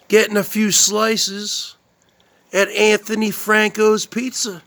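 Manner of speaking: lightly voiced pizza-loving Jersey guy, exaggerated; mock a streamer hyping his pizza run; impression of Spaghetti Noodle Boy. Streamer showing off his pizza to viewers, hammed-up. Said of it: "This is my impression".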